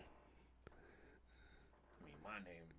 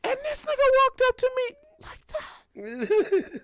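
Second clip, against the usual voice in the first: incredulous. Real, not acted. Incredulous retelling.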